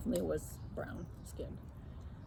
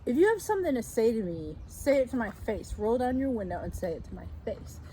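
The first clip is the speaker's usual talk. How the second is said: retold yell; 3 semitones higher than usual. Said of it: "And I yelled at her".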